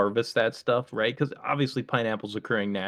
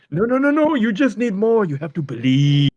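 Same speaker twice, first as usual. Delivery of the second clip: put-on very high, loud English-accented insistence; hammed-up English accent, pleading at full volume; 10 semitones higher, 9 dB louder than usual. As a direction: protest frantically as a mock English doctor. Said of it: "he had an English accent".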